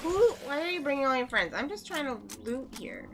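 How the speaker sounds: high, loud, fast panic; panicked yelling. Real, not acted. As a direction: shriek at the incoming crowd. Panicked at enemies.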